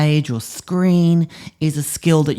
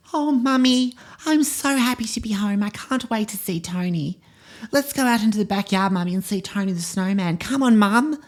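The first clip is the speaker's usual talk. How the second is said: put-on much higher, eager child voice, bubbling with joy; hammed-up happy little girl voice; excited little girl; 10 semitones higher than usual. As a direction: play a thrilled eight-year-old racing home to her snowman. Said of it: "So I'll be the eight-year-old girl".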